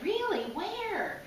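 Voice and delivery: little pig suddenly eager, asking where the turnips are; eager surprise. Acted. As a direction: pig perks up at the news of turnips. Pig hears of turnip garden.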